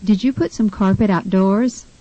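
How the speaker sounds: "outdoors" stressed on DOORS; second-syllable stress. Shown as a demonstration. Tutor models a carpet question, stress on DOORS in "outdoors". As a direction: ask it with the weight on the end of "outdoors". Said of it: "second syllable in the word outdoors is stressed".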